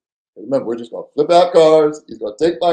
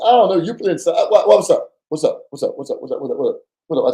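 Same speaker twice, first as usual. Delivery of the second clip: nervous stalling; 3 semitones higher than usual. Retold or imitated. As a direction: stall him with quick nervous repeats. Repeating caller's question nervously.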